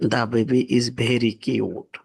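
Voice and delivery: very slow, word by word; slow example read. Shown as a demonstration. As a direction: read the ship line at a crawl for learners. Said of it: "example sentence read slowly". (ধীরে ধীরে পড়া উদাহরণ)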